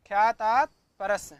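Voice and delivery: ख्यातात परस called out loud, ख्यातात hit hardest; loud sutra recital. Shown as a demonstration. Teacher recites the rule aloud for students, loud. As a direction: chant the sutra out loud for the class. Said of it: "क्या सूत्र है?".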